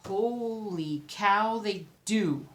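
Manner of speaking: drawn-out, slowed-down astonishment; slow amazed gasp. Real, not acted. Vlogger finding the cross-stitch online, slow amazement. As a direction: let the discovery stretch out slowly. Discovers the pattern exists.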